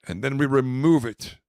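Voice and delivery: mock-grand sales spiel; pretend caviar connoisseur. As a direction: present it showily, landing loud on the last word.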